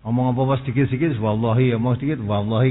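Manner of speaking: quick, offhand oath-dropping; imitated latah. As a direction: toss off "Wallahi" like a verbal habit. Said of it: "biasanya ngomongnya secara latah".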